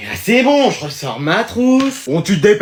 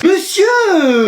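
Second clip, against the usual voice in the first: high protesting shout; 10 semitones higher than usual. Acted. Students protest loudly.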